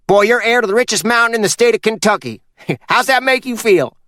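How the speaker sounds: put-on a sly old mountain man giving orders; Purvis voiced. Purvis announces inheritance.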